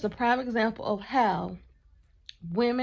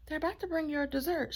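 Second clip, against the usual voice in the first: calm, respectful; 6 semitones higher, 5 dB quieter than usual. Retold or imitated. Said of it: "in the most calm, respectful way".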